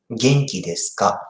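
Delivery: "Genki desu ka" run together quickly; quick natural take. Shown as a demonstration. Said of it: "pronounce like".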